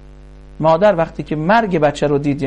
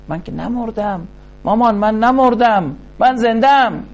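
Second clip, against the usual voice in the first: put-on child calling out; 4 semitones higher than usual. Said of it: "بانگ زد آن طفل".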